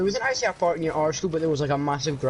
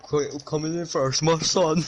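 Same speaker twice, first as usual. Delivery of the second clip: slow mock ring announcer, breaking into laughter; lightly hammed-up announcer; slower than usual. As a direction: imitate a fight introduction, drawn out. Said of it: "fucking fucking Ring announcer".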